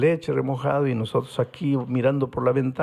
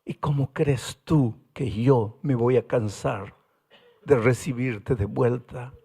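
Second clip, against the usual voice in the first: gentle voice of God; 5 semitones lower than usual. Acted. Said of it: "Y ahora Dios pregunta".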